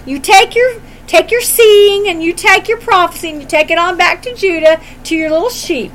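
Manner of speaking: a mildly hammed-up, condescending high priest; priest's dismissal. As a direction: shoo the southerner back home with a sneer. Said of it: "He just says".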